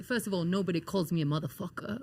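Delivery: lightly imitated mentor's rebuke; a hint of the coach laying down the law; Dusty Rhodes. Mentor corrects his cursing trainee, lightly imitated rebuke. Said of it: "like that".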